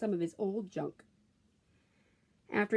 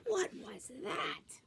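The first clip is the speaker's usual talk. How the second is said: startled whisper; 10 semitones higher, 5 dB quieter, much slower than usual. A narrator's reading. Skippy startled by mirror.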